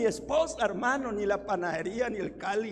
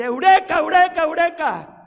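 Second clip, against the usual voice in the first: high, loud repeated cries; triumphant street shouting; 6 semitones higher, 12 dB louder than usual. Retold or imitated. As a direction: yell it running through the streets. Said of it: "gritando por toda la calle".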